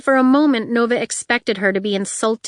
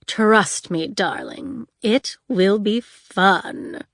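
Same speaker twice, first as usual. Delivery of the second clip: diva villain voice. Acted. Honey, seductive villain voice.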